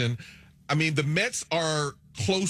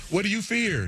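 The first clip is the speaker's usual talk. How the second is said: higher-pitched acted question; coach's question; 6 semitones higher than usual. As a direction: put the question to the whole room, pitched up. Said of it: "going around the room".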